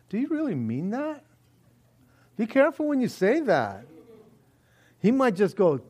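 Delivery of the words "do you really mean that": ordinary delivery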